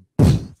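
short, loud burst of mouth noise; imitated bump noise. Couple in bed hear a noise, sudden mouthed bang. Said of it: "we hear this".

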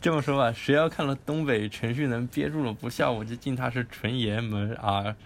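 hearty Dongbei reading voice; northeastern Chinese accent. Shown as a demonstration. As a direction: read like a jokey Northeasterner. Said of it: "那你来念一下吧".

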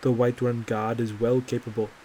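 stiff official reply, lightly played; formal voice. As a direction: stay on script. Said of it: "still in that formal voice".

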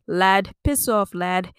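lightly put-on Irish retort; bad Irish accent. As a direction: try out a mock Irish brush-off. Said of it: "I don't know how to do an Irish accent".

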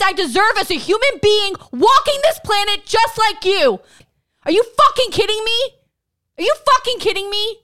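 real furious tirade; angry rant. Real, not acted. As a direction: let the fury spill out, pitch climbing. Furious rant about abortion laws.

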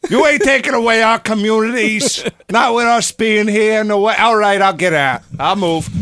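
put-on Jersey accent. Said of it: "switch to the Jersey accent".

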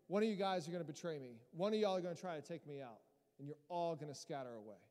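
quick, half-hearted Italian mobster; badly faked Italian mob boss, rattled off; botched Italian mob voice. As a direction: have a rough go at an Italian mob accent. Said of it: "I can't do that Italian mob voice".

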